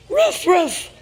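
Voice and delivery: loud playful woof woof; dog bark imitation. Parent barking for toddler.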